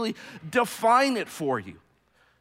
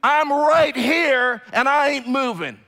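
loud, slow defiant call; facing down a threat, a defiant shout; 6 semitones higher, 7 dB louder, slower than usual. Pretend. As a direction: stand your ground and yell it at the danger. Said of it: "looking at that thing and saying".

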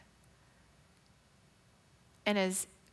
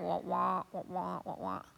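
droning wah wah fading down low; tuned out the nurse's voice; muffled wah-wah babble; 3 semitones lower, 6 dB quieter than usual. Retold or imitated. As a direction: mimic the adult noise that stopped making sense. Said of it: "I just remember hearing".

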